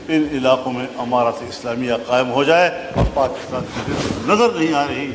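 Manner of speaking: name each lost district with real pain; pained and grieving. Real, not acted. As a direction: dukh bhari, dheemi awaaz. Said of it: "बहुत दर्द और दुख से कह रहा हूँ".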